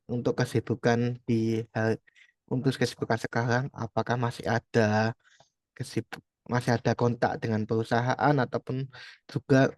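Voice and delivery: speaking up so she can hear. Real, not acted. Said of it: "Oh iya, saya ulangi".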